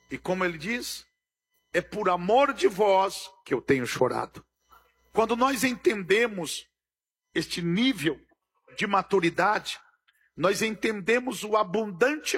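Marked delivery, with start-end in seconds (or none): none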